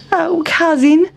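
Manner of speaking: a spoiled mouse sighing to his cousin; Town Mouse voice. Acted. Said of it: "said Town Mouse".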